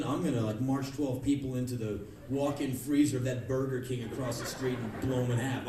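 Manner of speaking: low, matter-of-fact customer; deadpan gun buyer. Acted. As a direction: lay out the plan in a low voice. Next gun buyer acted.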